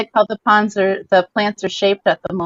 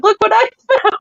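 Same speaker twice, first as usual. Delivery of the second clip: excited, much higher find announcement; quoting Brian's find; 13 semitones higher, faster than usual. Retold or imitated. Wife quoting Brian showing off plants, high and excited. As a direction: show off a found plant. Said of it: "and be like".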